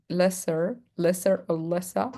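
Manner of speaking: "lesser" Australian, ends like "lessa"; Australian accent. Shown as a demonstration. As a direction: drop the R Australian style. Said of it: "for the Australian people".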